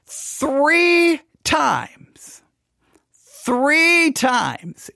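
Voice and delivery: THREE drawn out and punched; emphatic repetition. Real, not acted. Emphatic reveal in his story.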